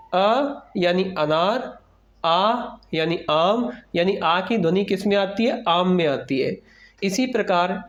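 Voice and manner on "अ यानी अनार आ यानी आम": slow, spelled-out chant of vowel and word; slow recitation. Shown as a demonstration. Teacher slowly recites vowel chart for young pupils. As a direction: recite each letter slowly for children. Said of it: "vowel chart recitation".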